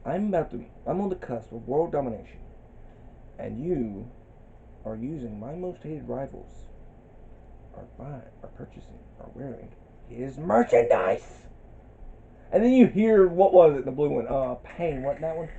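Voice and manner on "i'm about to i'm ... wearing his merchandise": megalomaniac rant. Retold or imitated. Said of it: "My favorite villain rant".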